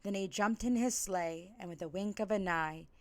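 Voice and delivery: rhythmic, sing-song rhyming read-aloud; lilting holiday storyteller; storybook narration. A narrator's reading. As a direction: read it like a bedtime story to kids.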